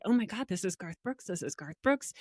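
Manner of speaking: quick, hushed inner voice; inner panic. Retold or imitated. Guest recalls thinking beside a famous singer, hushed panic. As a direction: starstruck thoughts kept under the breath. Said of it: "I'm thinking in my mind".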